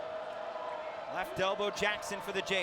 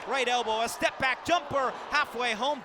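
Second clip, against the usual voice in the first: quick burst of suspense in the call; excited shot call; 2 semitones higher, 6 dB louder than usual. Real, not acted. Announcer follows a jumper in flight, excited. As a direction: lift louder as the shot goes up.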